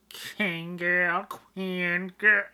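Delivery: loud, slow, rising hype for the singer; hyping her up. Real, not acted. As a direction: call her name out like a fan cheering.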